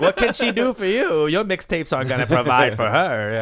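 high mock Chinese-parent accent, laugh creeping in; playful Chinese accent impression. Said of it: "those accents are very Chinese".

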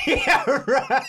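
high laughing yeah. Real, not acted. Laughing at cat story.

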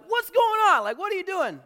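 high, loud indignant challenge; acted confrontation. Pastor acts his old self confronting a line-cutter, loud indignation. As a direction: burst out as the hot-headed old self. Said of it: "My old self would be like".

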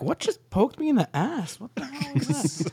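high startled yelp of a question; mock startled. Rider jolted by his saddle, in mock shock. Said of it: "you're like".

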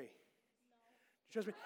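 drawn-out, very slow and ominous; mock sinister ask; teasing slow question. Shown as a demonstration. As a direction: stretch it out to tease the kid.

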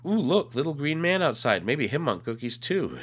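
put-on high, loud eager kid; excited child voice. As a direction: point it out thrilled. Boy excited at alien sighting.

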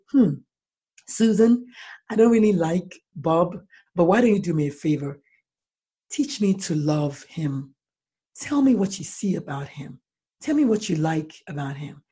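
gentle parent. Retold or imitated. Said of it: "But what if you said".

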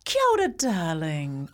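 a hint of a pushy matchmaker auntie; lightly voiced doting auntie. Real, not acted. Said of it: "Oh, I do sound like an auntie now".

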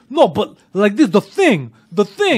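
insistent mock loud. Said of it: "he was like this".

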